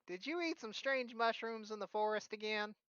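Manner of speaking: put-on high, knowing old lady; granny voice. Philia suspecting mushrooms, high granny voice. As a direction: quiz him like a wise grandma. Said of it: "she's like".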